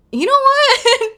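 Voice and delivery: high, loud, drawn-out commenter cheer; over-the-top, high and slow exclamation; mock hyped-up reaction. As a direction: squeal it slowly like an impressed fan. Acting out commenters' big reaction.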